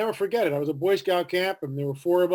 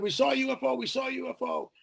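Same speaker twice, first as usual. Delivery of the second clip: excited; 8 semitones higher, 4 dB quieter, faster than usual. Retold or imitated. Boys running back to camp.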